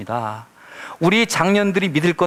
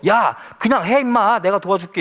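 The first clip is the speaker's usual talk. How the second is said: a touch of annoyed scolding, a little higher; mock irritated God; 5 semitones higher than usual. God scolding hesitant Moses, mock irritated. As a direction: brush off the excuse with mild irritation. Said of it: "하나님이 나중에 짜증을 내시죠".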